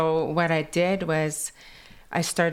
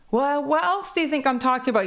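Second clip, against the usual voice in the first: quick, high and louder through a laugh; granny's comeback, quoted laughing; laughing quote of granny; 9 semitones higher, 4 dB louder, faster than usual. Retold or imitated. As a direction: giggle out granny's retort, fast. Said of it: "but she's like".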